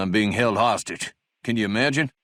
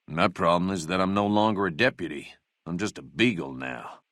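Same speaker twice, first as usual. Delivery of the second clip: dejected; 4 semitones lower than usual. Acted. Laments losing his deputy job.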